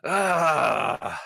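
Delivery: high, brief giant's yell; acted pained yell. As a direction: cry out as if struck in the legs. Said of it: "he kinda yells".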